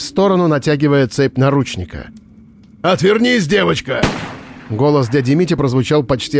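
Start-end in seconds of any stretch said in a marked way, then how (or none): 2.8-4.0 sharp warning. A narrator's reading. Warning before the shot.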